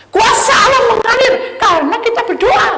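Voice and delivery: high, loud proclamation; preaching at full force. Acted. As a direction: proclaim God's power. Preaching climax.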